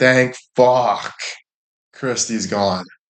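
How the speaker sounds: acted-out, sudden relieved aside. Acting out the relief once the aunt leaves: mock relief. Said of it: "And then we're like".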